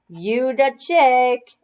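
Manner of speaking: put-on slow, high slangy kid's compliment; cool kid aside. A narrator's reading. Boy complimenting the teacher under his breath, cocky. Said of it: "not loud enough for the teacher".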